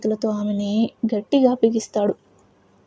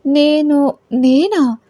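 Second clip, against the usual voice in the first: startled, higher and louder protest; surprised; 4 semitones higher, 5 dB louder than usual. Acted. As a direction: caught off guard, disbelieving. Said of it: "ఆశ్చర్యంగా అడుగుతుంది". (ఆశ్చర్యంగా, ఎక్కువ స్వరంతో)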